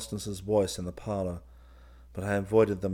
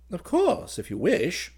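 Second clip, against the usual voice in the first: high, uncertain agreement; somewhat puzzled; 10 semitones higher, 4 dB louder than usual. A narrator's reading. Officer agreeing to his cousin's odd request, puzzled. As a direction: agree with a puzzled lift in pitch. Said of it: "somewhat puzzled".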